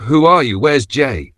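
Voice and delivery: high, loud frightened demands; alarmed cry; panicked stammer. Acted. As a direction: blurt it out in panic. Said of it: "she stammered".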